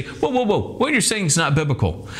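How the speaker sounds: high, urgent "whoa" that settles into a firm correction; alarmed correction. Retold or imitated. Teacher halting an unbalanced church with a high urgent correction. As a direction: pull the preacher up short, like a worried teacher.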